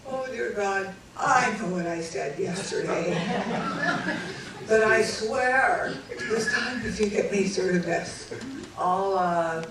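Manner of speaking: half-laughing mock prayer of bargaining; lightly played desperate prayer; praying. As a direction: bargain with God, building to a loud laugh. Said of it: "So I did this".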